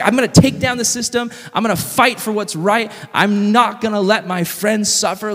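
lightly voiced fighter swearing to protect friends; passionate heroine. Youth speaker quoting Katniss's mission to fight, passionate. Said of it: "Like, she's passionate".

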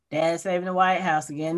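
low, monotone recap of dad's heroics. Acted. Speaker mimics Mark watching the news report, monotone. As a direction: voice it as a bored routine, low and monotone. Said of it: "It's, like, very monotone".

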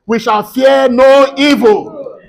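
forceful prayer declaration. Real, not acted. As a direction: proclaim blessings with rising force over the congregation. Declares blessings over congregation.

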